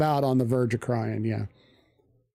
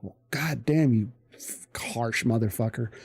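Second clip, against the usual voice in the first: muttered under breath; 4 semitones lower, 4 dB quieter than usual. Retold or imitated.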